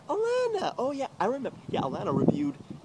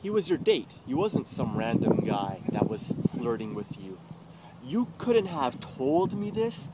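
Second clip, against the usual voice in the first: retold accusation; 3 dB louder than usual. Confronting Alana at her door.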